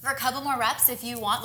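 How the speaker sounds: winded mid-workout; out of breath. Real, not acted. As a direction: talk while catching breath. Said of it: "I'm out of breath already".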